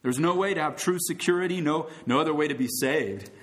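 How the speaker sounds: rising preacher's appeal; soapbox orator. Acted. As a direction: plead with the crowd.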